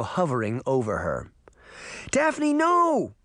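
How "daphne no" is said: desperate cry. Acted. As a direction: cry out to stop her sister. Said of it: "Sabrina cried".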